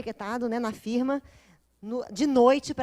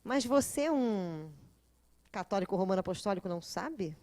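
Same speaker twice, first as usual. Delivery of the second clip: softer, sly mock astonishment; sarcastic; 5 semitones lower, 4 dB quieter than usual. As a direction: tease the visitor with fake surprise. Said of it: "Eu viro pra ele e falo assim".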